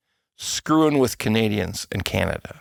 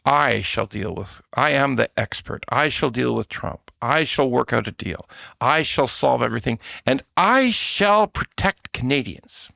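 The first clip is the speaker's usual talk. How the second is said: mock campaign pledge; measured, self-important candidate's vow; Carney. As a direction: proclaim it like a lofty campaign promise. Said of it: "The message of the campaign was".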